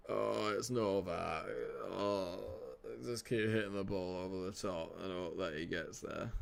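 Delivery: slow, droning guest-pundit voice; Andy Murray. Acted. Guest pundit advising long balls to Novak, slow put-on drone. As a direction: draw it out like a laconic tennis player. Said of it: "I'm so bringing Andy Murray in".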